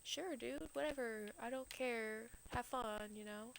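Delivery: casual indifference. Retold or imitated. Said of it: "Hades is like".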